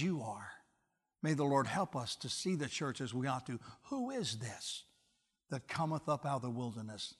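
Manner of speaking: low, soft, earnest appeal; solemn sermon closing. Real, not acted. Preacher urging the church to love as Christ's bride, hushed and solemn. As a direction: bring the voice right down and plead gently.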